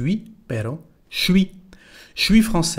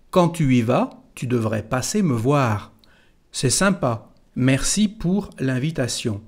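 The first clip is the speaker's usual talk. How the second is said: school French. Shown as a demonstration. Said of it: "primero empezar cómo se aprende en la escuela".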